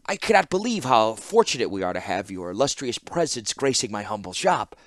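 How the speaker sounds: quick fawning patter; lightly voiced hurried clockmaker; rapid murmur. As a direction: rattle off the compliments like a groveling shopkeeper. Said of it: "he murmured in rapid cadence".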